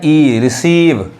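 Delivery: slow ई, then रिसीव with a long "ee"; रिसीव as "ri-SEEV", vowel held; long "ee" sound. Shown as a demonstration. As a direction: stretch the "ee" in ई and रिसीव. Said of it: "long sound, रिसीव".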